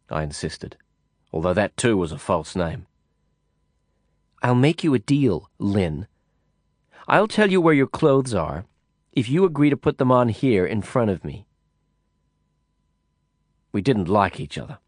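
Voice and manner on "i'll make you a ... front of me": a hint of a raised, bargaining woman; sly woman making a deal, lightly voiced. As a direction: tease out the deal, a touch higher.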